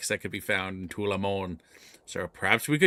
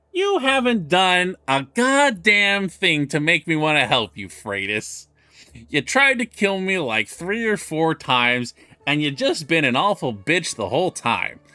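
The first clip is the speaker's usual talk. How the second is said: angry outburst; 4 semitones higher, 3 dB louder than usual. Acted. Daughter rages at the cleric.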